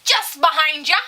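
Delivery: loud, high sing-out of "behind ya"; called-out warning. Retold or imitated. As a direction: call "behind ya" out brightly to passers-by. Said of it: "and she's like".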